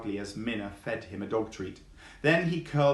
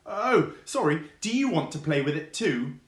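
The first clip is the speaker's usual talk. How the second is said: high, bouncy fox voice, much higher than the narration; cheeky fox; 5 semitones higher, 4 dB louder than usual. Acted. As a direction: play the cheeky young fox, pitched up. Fox character voiced in story.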